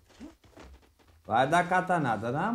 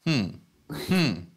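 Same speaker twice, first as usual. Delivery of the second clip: mock jealous confrontation; 4 semitones lower than usual. Mock jealous husband confronting viewer.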